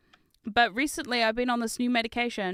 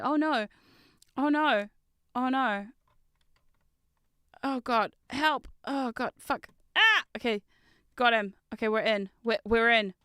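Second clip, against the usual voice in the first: hacker voice. Pretend. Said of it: "I was trying to do my hacker voice".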